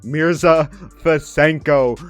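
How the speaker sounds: slow, drawn-out name call; excited call. Real, not acted. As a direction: stretch the name out with hype. Praising the hot shooter.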